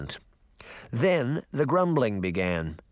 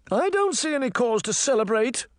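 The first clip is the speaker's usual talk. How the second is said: high, imperious queen voice; haughty Queen of Hearts; 11 semitones higher, 3 dB louder than usual. Acted. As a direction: look down on the whole crowd.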